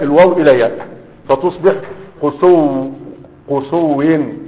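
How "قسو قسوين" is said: قسوين stretched slowly as a hard-to-say form; laboured pronunciation demo. Shown as a demonstration. Teacher showing students an awkward intermediate word form, slow laboured demonstration. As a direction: sound out قسوين slowly, drawing out the long u before the w. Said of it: "يعني نطقها صعب".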